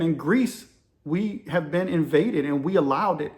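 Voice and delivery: lightly imitated Greek accent; a hint of Greek in the retelling; poor Greek accent. Greek chief sharing his country's troubles, mild imitated Greek accent. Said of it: "in my poor Greek voice".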